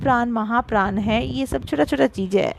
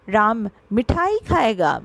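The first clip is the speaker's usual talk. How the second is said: मिठाई stressed, खाएगा dropping away after it. Shown as a demonstration. Teacher showing sentence emphasis to pupils, stress on मिठाई. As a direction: lean on मिठाई in the question. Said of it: "मतलब मिठाई पे जोर दिया".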